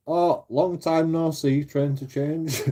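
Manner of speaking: slow, drawn-out cheery hello; mock friendly greeting. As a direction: greet him with fake warmth, slowly. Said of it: "And I said".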